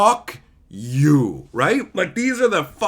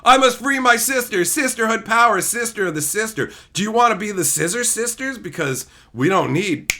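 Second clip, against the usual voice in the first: mock heroine; 5 semitones higher than usual. Mocking a movie heroine's empowerment speech. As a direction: declaim like a cheesy movie heroine. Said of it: "D and D movie had".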